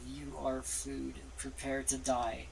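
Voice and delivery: slow, low dragon threat; deep dragon voice. Acted. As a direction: menace them like a dragon. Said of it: "deep draconic voice".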